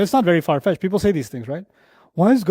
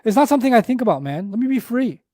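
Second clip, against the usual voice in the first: carefree scoffer; 5 semitones higher, faster than usual. Acted. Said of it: "they don't wanna take this conversation seriously".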